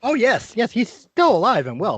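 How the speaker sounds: put-on an old wizard greeting the party at the door; Corbin, eager wizard. Corbin replies to Malachi.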